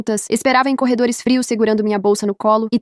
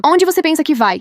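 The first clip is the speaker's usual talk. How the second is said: 1 shouting after her; 5 semitones higher than usual. Acted. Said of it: "ela gritou atrás de mim".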